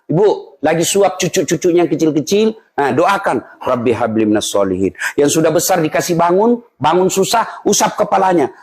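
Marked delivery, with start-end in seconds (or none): 3.6-4.9 tender murmured prayer. Retold or imitated. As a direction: bless the little one gently. Mother praying softly over child. (doa lembut untuk cucu)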